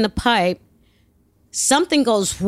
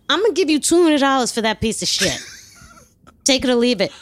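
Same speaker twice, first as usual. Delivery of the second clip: mock hard bargain; 3 semitones higher, faster than usual. Lowballing the car seller.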